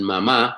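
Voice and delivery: "mamá" stressed on the last A; stress on final syllable. Shown as a demonstration. Teacher gives the word for mom, end-stressed "mamá". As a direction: lean on the second syllable of "mamá". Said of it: "M A M A with accent".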